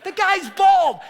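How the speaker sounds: high-pitched imitated indignation, ending loud; mock mad outburst. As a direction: act out exasperated disbelief, way up in pitch. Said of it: "He was so mad".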